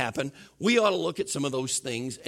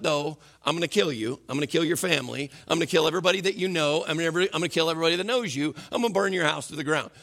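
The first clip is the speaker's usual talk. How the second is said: quick, breathless string of threats from the king; mock tyrant reeling off threats at speed; rattled-off king's threat; faster than usual. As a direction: rush through the threats like a tyrant gone off.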